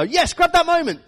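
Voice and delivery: high, excited burst; mock parental triumph. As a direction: pounce on the photo moment, hammed up. Parent seizing a photo moment.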